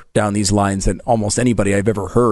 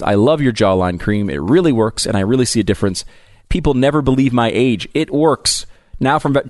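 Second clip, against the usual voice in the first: upbeat host-read commercial; 3 semitones higher than usual. Acted. Host reads a skincare ad to listeners, upbeat ad read. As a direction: sell the cream, pitch it brightly.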